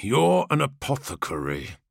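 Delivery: through gritted teeth, holding back anger; words squeezed through clenched teeth. Acted. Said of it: "Khan spoke through gritted teeth".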